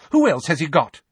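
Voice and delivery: high, loud challenge; fierce. A narrator's reading. Mrs Weasley challenges Sirius over Harry, fierce. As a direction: throw the question back fiercely. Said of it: "said Missus Weasley fiercely".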